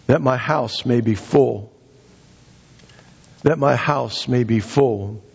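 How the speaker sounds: measured pulpit reading of a parable; scripture reading. Acted. Preacher reads the master's parable to the congregation, measured scripture reading.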